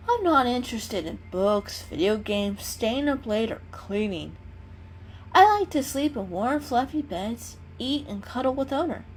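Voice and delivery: a small cat explaining himself sincerely; kitten voice. Acted. Kitten lists what he likes.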